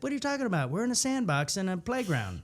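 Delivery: high, incredulous brush-off; dismissive denial. Shown as a demonstration. Improviser blocking his partner's idea, high incredulous dismissal. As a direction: deny the idea as if it's nonsense. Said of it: "and I said".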